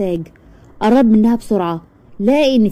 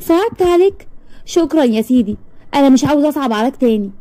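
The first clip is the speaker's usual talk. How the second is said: sarcastic scorn; 5 semitones higher than usual. Acted. Mocks his pity.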